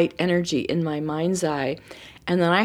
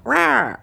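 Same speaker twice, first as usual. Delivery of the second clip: mock bird squawk; 6 semitones higher, 4 dB louder than usual. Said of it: "heard a bird go".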